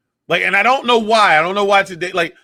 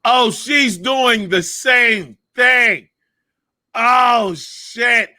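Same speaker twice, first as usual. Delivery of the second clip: realization; 5 semitones higher, much slower than usual. Retold or imitated. Retold realization watching press secretary.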